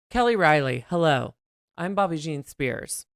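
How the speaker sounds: put-on British accent, mildly done; fake British accent. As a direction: greet her in a playful British accent. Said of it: "talking like this the whole fucking time".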